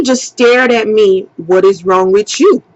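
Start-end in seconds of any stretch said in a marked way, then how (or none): 1.4-2.6 lightly imitated Haitian accent, lower pitch. Woman mimicking the man who stared at her, mild Haitian accent. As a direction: mimic his Haitian accent low and even. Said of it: "he got an accent".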